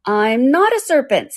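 high, slow indignant denial. A narrator's reading. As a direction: protest it indignantly, pitch lifted. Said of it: "said Alice indign-, indig-, indignantly".

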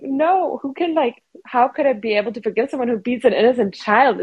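a mild re-enactment of sobbing disbelief; retold crying plea. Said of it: "And I was crying".

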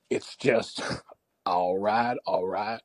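lazily stretched, softly trailing celebrity impression; Matthew McConaughey. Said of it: "sound like Matthew McConaughey".

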